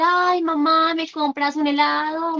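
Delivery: a hint of a kid asking mom; lightly voiced pleading child. Child asking mother for ice cream, mild mock pleading. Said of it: "va a llegar el hijo a pedir".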